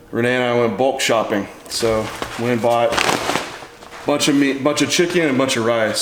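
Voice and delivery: winded, catching breath between words. Real, not acted. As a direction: talk while still out of breath. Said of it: "today I'm out of breath".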